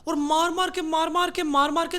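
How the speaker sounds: loud amazed gossip; incredulous, building. Real, not acted. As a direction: pile up each मार मार के in disbelief. Incredulous retelling of couple fighting.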